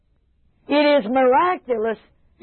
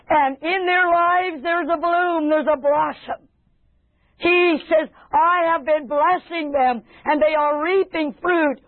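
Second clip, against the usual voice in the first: fervent preaching; 4 semitones higher than usual. Acted. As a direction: proclaim good news as from the Lord. Preaches as the Lord, building up.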